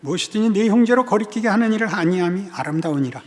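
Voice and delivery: steady, continuous formal reading; scripture reading. Acted. Pastor reading Bible verses to congregation, formal reading. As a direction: read the verses out evenly.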